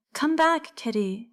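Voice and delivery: high, urgent call after the cat; child shouting after a runaway cat; shouted call. A narrator's reading. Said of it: "he shouted".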